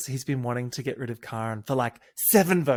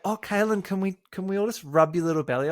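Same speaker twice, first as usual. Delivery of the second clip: higher, faster cooing; 5 semitones higher, faster than usual. Retold or imitated. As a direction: coo at the belly. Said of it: "they were like".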